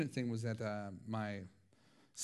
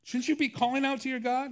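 rough captain shouting; 12 semitones higher, 5 dB louder, faster than usual. Retold or imitated. Ship captain wakes sleeping Jonah, high rough shout. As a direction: shout him awake, much higher and louder. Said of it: "the captain of the ship comes down and rattles his cage".

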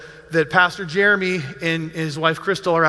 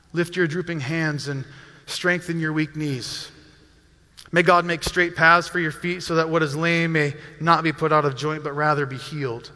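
subdued, lower-pitched blessing; prayerful; 3 semitones lower than usual. Retold or imitated. Pastor prays over a bereaved colleague's family, gentle prayerful recital. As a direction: pray the verse gently over a grieving friend. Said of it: "I'm praying Hebrews twelve".

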